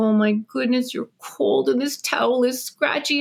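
put-on cooing to a baby. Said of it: "You look at the baby and you go".

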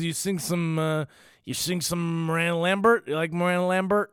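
put-on drunk regular. Drunk regular pestering a singer for a song, slurred drunk imitation. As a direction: stumble through the request like a drunk. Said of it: "a regular who's just piss drunk".

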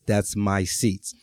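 slow and deliberate, marking territory; slow pointed claim. Retold or imitated. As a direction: drag each word out slowly, staking the claim. Woman's look translated into words.

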